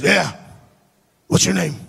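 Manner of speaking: lightly imitated accent of an eccentric man; Billy's accent. Crazy Billy introducing himself to the storyteller, lightly imitated accent. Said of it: "I've done an accent the whole time".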